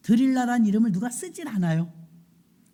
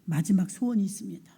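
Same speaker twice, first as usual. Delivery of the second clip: solemn prayer. Acted. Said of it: "삼손이 이렇게 기도합니다".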